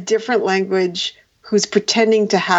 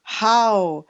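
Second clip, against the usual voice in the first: reproachful mother; slower than usual. Retold or imitated. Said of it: "she was like".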